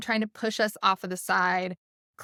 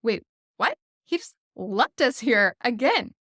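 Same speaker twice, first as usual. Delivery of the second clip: mock panic; 3 semitones higher, 4 dB louder than usual. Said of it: "and they're panicking".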